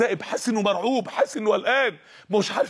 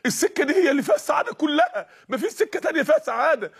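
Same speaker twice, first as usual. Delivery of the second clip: mock yell; 6 semitones higher than usual. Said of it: "الصوت بيصرخ في وداني الاتنين".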